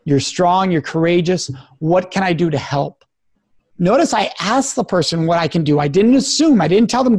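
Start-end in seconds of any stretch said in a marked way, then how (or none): 0.0-3.0 calm, sincere support. Shown as a demonstration. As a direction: gently affirm them, slowly. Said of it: "look that person in the eyes and say".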